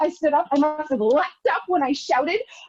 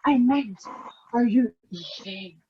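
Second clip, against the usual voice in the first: supercilious; 5 semitones lower, 4 dB quieter, slower than usual. Retold or imitated. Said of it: "in the most supercilious tone said".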